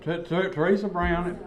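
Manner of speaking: talking through a mouthful; words round a bite of candy; mouth full. Real, not acted. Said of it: "You're talking with your mouth full".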